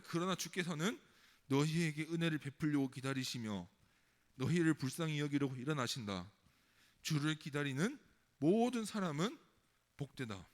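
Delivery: measured, declarative verse reading; formal Bible recitation; scripture reading. Acted. Reads the verse aloud.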